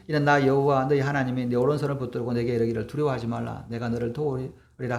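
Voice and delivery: even, low-key Bible verse recitation; measured reading from scripture. A narrator's reading. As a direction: read the verse aloud in a subdued, level voice. Reads a Bible verse aloud.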